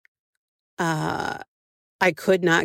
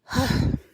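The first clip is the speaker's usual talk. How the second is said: short wistful sigh; longing sigh; 7 semitones higher than usual. Real, not acted. Thinking about warm cinnamon rolls, a longing sigh. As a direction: let out a sigh of craving.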